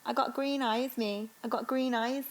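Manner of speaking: Brummie voice; Birmingham accent. Acted. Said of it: "I can only do Birmingham".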